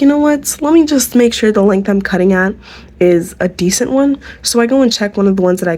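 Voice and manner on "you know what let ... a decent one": retold self-talk. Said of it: "because I was like".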